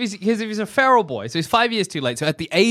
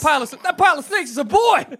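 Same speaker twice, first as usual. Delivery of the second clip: high, rushed exclamation; hammed-up shock; horrified disbelief; 9 semitones higher, faster than usual. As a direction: blurt it out high and fast. Acts horror at snake-covered boy.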